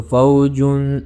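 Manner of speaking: فوجن very slow, with a hidden, held nasal sound; ikhfa demo. Shown as a demonstration. Teacher shows students ikhfa, slow and nasal. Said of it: "ہم اس کو کیسے پڑھیں گے".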